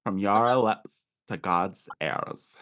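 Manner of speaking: slow, silly cartoon character voice. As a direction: stretch it out like a cartoon. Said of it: "I went right into just cartoon voice".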